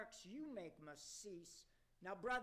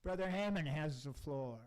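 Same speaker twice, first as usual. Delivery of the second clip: granting the floor; 5 semitones lower, 9 dB louder than usual. Acted. Chairman calling on speaker.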